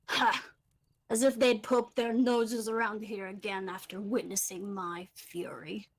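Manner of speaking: hammed-up gnome bluster, ha barked out; a tiny gnome boasting far too fiercely; overly intense gnome. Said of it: "way too overly intense for a gnome".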